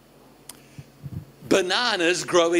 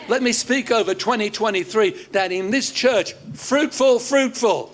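emphatic, sustained pulpit declaration; building preacher's cadence with punched key words; preaching proclamation; 4 semitones higher than usual. Real, not acted. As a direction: speak a blessing over the whole church. Preacher proclaims blessing over church.

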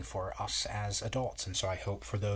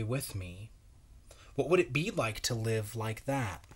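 storybook reading; 2 semitones higher than usual. Acted. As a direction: read it like a bedtime story, wondering aloud. Reads the picture book aloud.

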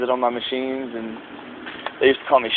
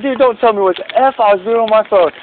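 higher, heated retort; retold comeback; 7 semitones higher than usual. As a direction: fire it back at the boss. Retold angry retort to boss.

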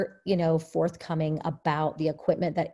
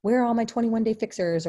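excited callout; 5 semitones higher, 3 dB louder than usual. Retold or imitated. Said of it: "engagement questions like that".

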